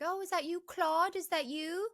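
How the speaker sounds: mock-sweet call to the cat. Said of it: "she's like".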